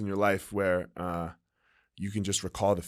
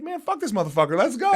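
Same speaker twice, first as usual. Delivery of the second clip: fired-up quote; 11 semitones higher, faster than usual. Retold or imitated. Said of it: "I was like".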